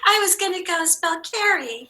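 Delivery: giggling through a slip of the tongue; laughing at herself. Real, not acted. Teacher laughs at her own spelling slip, giggling. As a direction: laugh it off as you correct yourself.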